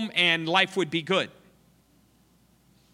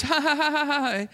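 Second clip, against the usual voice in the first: higher, mocking ha ha ha; mocking laugh; 10 semitones higher, 3 dB louder than usual. Crowd laughing at the missionary, mocking laugh. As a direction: jeer at the fool. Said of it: "laughed at the loser".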